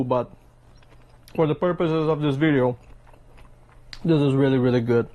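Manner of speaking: chewing while talking; mouth full. Real, not acted. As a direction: talk with your mouth full. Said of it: "don't talk with your mouth full".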